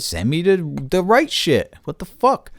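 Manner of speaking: exasperated demand. Retold or imitated. Demanding the right product.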